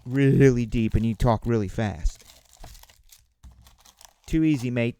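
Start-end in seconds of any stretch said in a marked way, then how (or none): 4.2-5.0 mock Australian "Too easy, mate"; light Australian twang; Aussie accent. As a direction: toss it off like a laid-back Aussie. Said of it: "Aussie accents".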